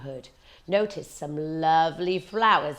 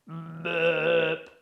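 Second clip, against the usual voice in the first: burp; 2 semitones lower than usual. A narrator's reading. Wolf's burp.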